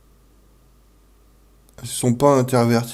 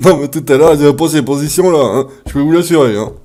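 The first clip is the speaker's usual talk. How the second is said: laughing; 6 dB louder than usual. Real, not acted. Laughing after scare.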